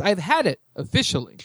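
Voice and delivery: light impression of a fed-up drag queen; a touch of drag queen exasperation; Detox. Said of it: "And in the voice of Detox".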